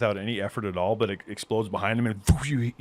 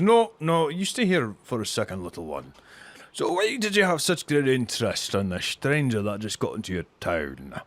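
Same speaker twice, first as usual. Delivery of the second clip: dwarf figure, raised opening settling down; probing dwarf. Acted. Dwarf stops the little one to question him, probing.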